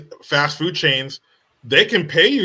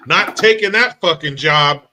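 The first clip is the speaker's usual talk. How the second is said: quoting the applicant; 4 semitones higher, 8 dB louder than usual. Retold or imitated. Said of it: "end quote".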